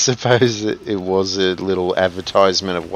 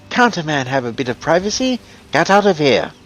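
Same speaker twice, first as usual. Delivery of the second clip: indignant shout; 9 semitones higher, 4 dB louder than usual. Retold or imitated. Imitating grumpy NPC.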